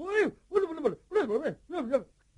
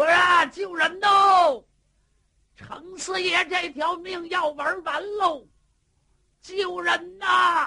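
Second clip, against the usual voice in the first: very high, loud, shrill, drawn-out, frantic wild yelling; 10 semitones higher, 8 dB louder than usual. A storyteller voices a character yelling wildly for help: wild yelling for help. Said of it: "他就那么瞎喊，".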